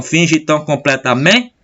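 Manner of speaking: "completamente" rising onto "men", with "te" held apart; stress on MEN. Shown as a demonstration. Teacher showing where counting stops, stressing "men" in "completamente". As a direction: lift "men" in "completamente", then pause. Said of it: "mais forte, parou aqui de contar".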